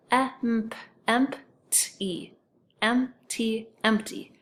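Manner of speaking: "emp-" then "empty" said as one blended word; blending the syllables. Shown as a demonstration. Teacher demonstrates the correct split of "empty". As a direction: build up from "emp-" to the whole word. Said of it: "And then it's".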